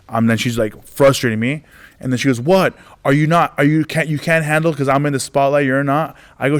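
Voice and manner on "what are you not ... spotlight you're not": higher-pitched mock challenge; taunting heckler. Drunk heckler to the comedian, taunting. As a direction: goad the comic, mimicking a heckler.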